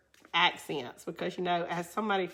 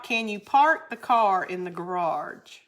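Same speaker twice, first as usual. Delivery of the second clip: put-on Northern accent. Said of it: "Sin say".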